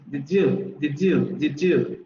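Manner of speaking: did you merged as "didju"; did you contraído. Shown as a demonstration. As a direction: blend did you with a j sound in the middle. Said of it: "vamos a seguir teniendo contracción". (did you contraído, con sonido "dju")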